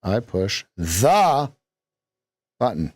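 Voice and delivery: slow, drawn-out the; stress on THE. Shown as a demonstration. Coach slowly stresses the. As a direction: drag out the. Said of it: "we could put an emphasis on any syllable".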